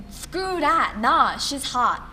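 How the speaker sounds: loud burst into drawn-out insistence; defiant, stretching the last words; defiant self-correction. Acted. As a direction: throw off the doubt emphatically. Acted argument with herself.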